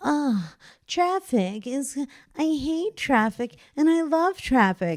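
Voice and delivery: put-on whiny, high, drawn-out navigation-app girl voice. Imitating the navigation app voice she calls whiny: imitating a whiny girl's voice. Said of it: "that whiny girl's voice".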